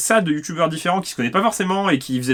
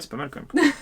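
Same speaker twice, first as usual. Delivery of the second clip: laughing; 11 semitones higher, 4 dB quieter than usual. Real, not acted. Mocking a silly Deluxe edition.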